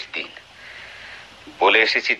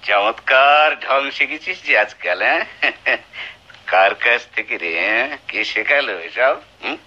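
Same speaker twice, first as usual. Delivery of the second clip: mocking sneer. Husband mocks wife's pleading.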